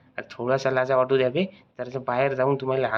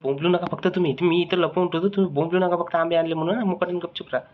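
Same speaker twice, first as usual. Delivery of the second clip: urgent hushing; 4 semitones higher than usual. Acted. Urgently orders friends to keep quiet.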